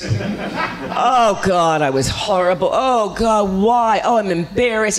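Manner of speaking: hammed-up post-audition wail; self-berating actor. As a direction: beat yourself up in playful despair. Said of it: "putting ourselves down".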